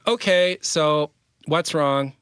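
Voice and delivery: high, drawn-out exasperated question; not super loving. Retold or imitated. Husband retelling how he asked his angry wife, pointedly not gentle. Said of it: "Did you say it gently and lovingly like that?".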